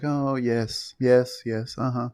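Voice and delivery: mildly cooing mock sympathy; feigned sympathy. Imitating Larry humouring a crying lady, feigned sympathy. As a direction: pretend to sympathize, a touch put-on. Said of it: "also the feigned, um, sympathy".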